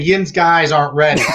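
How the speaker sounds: Pittsburgh "Yin's guys" said broadly; Western PA accent. Shown as a demonstration. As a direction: give it the Pittsburgh yinz flavour. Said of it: "That's how we say it over in Western P A".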